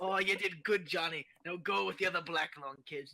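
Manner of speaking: lightly voiced Scottish dad; a hint of a Scottish papa sending his boy off; mild Scottish accent, parent to child; Scottish father. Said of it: "Scottish kids in coal mines with disapproving parents".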